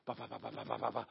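rapid low "ba" pulses, very soft; racing heartbeat imitation. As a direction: imitate a pounding heart in quick, even beats. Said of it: "It's like".

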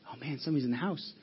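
softly voiced robber's worried thought; hushed alarm.

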